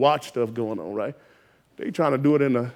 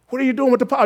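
asked again higher and harder; pressing the question; 7 semitones higher, much faster than usual. Shown as a demonstration. Preacher to congregation, repeating the question more insistently. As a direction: push the question home, pitch up. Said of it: "repeated higher".

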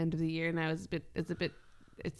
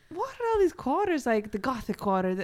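mock baffled; 5 semitones higher than usual. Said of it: "And I was like".

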